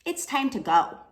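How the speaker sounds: put-on a small child telling him plainly; little girl voice. Little girl tells the lion, lightly voiced child. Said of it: "a little girl told him".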